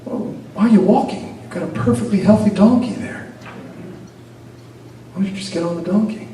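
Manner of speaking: high, mocking voice of a stranger; scolding passerby. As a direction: needle the father like a busybody.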